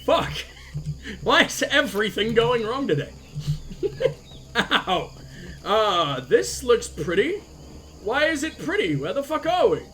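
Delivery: talking with a tissue in the nose; tissue up one nostril. Real, not acted. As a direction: speak with a nostril plugged by tissue. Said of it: "I'm a jam of tissue in my nose".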